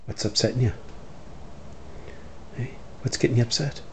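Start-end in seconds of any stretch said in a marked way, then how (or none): 2.5-3.8 higher, fast sing-song pet talk. Acted. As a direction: coo at the dog, rising higher. Talking to upset dog.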